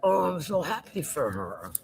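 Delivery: talking while chewing; chewing noisily. Real, not acted. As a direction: speak through a mouthful of food. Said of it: "Sorry I'm eating my lunch".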